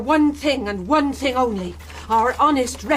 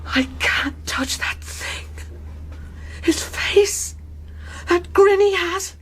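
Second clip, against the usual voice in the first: horrified dread; 5 semitones higher than usual. Acted. Mother horrified by dead face.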